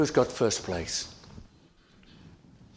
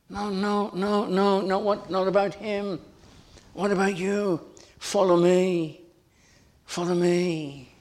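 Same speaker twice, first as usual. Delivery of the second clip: higher, emphatic rebuke; rebuking Jesus; 7 semitones higher than usual. Acted. Jesus correcting Peter, raised and firm. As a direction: brush the question aside firmly.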